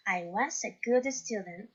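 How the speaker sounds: slow, careful English example; statement read slowly for learners; slow model reading. Shown as a demonstration. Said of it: "teacher reads example sentence".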